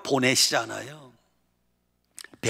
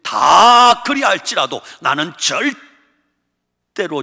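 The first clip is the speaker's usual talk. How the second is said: loud, higher, drawn-out vow; fussy outburst; 3 semitones higher, 8 dB louder, slower than usual. Acted. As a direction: swear it with dramatic fervor. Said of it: "호들갑을 떱니다".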